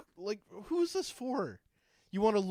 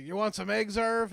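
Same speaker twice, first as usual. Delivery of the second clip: cheery inventor dad; 4 semitones higher, 5 dB louder than usual. Retold or imitated.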